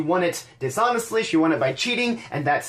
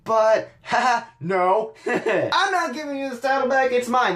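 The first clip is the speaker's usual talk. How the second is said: mock-agonized then laughing turn; hammed-up Bayley faking reluctance before laughing; Bayley impression; 4 semitones higher than usual. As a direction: sigh it out fake-torn, then snap into a giggly refusal. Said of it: "like she's".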